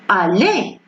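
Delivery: "Aller" ending in a closed é sound; "Aller" as a careful model, ending in é; ER pronounced E. Shown as a demonstration. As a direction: say "Aller" with the R silent. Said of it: "ça prononce E".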